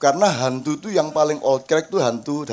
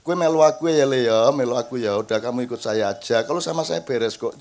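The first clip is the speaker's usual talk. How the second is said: gentle coaxing; 6 semitones lower than usual. Retold or imitated. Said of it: "tidak pernah saya bentak-bentak".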